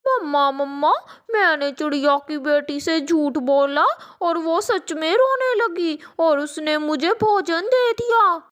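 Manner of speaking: put-on a proud kid bragging to mom; a hint of mischievous child; boasting little crow.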